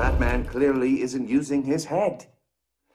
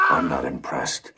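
scornful laughing shout; 10 semitones lower than usual. Acted. Villain mocking Batman.

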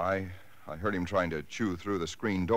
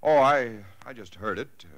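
startled; 6 semitones higher, 5 dB louder than usual. Acted. Caught off guard about arm.

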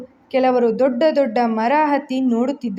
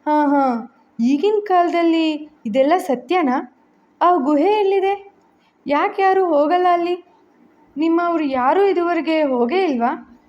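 eager questioning; 4 semitones higher than usual. Acted.

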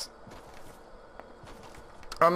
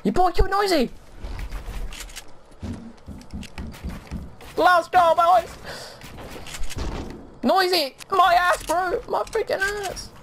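frat bro; 10 semitones higher than usual. Real, not acted. Hype celebration after kill.

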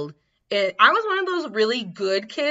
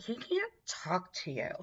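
hushed aside; 13 dB quieter than usual. Retold or imitated. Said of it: "She was like".

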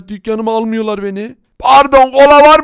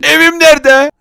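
higher and louder, insistent; impatient demand; 6 semitones higher, 5 dB louder than usual. Acted. Villager nags the seller about the house, impatient. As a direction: push for an answer.

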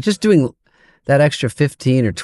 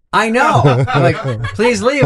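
high, pleading little voice; mock pleading; 8 semitones higher, slower than usual. Comic imitating his flustered self at the read-through, high and pleading. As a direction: beg them to go away.

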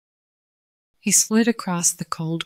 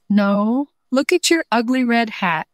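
mocking laugh; 6 semitones higher, 3 dB louder than usual. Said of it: "laughed Snowball".

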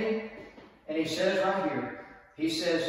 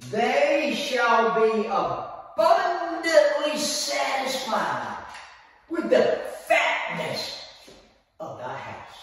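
drawn-out, emphatic reading, higher on fatness; slow scripture reading; 5 semitones higher, slower than usual. Acted. Preacher savouring the verse for the church, slow. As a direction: stretch every word of the promise.

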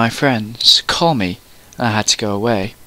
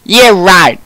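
loud, higher exclamation; exclaimed; 6 semitones higher, 6 dB louder than usual. A narrator's reading. Friend doubting Ebony's denial, exclaimed. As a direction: exclaim it, jumping up in pitch. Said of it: "she exclaimed".

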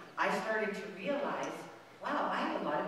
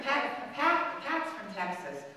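higher and louder, rattling off names with glee; gleeful roll call of Texan friends, higher and louder; excited listing; 6 semitones higher, 8 dB louder than usual. Real, not acted. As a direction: count them off, delighted and amused.

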